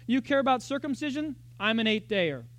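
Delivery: mock-boast the credentials; Paul boasting. Paul answering his rivals, lightly voiced boast. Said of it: "he lists his seven things".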